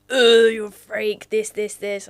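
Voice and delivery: mock teasing. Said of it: "Everyone was in my D Ms like".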